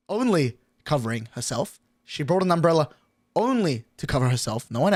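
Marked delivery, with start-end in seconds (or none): 0.1-1.8 said again through a laugh, softer; laughing at how selfish she was; laughing repeat. Retold or imitated. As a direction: chuckle it out in disbelief.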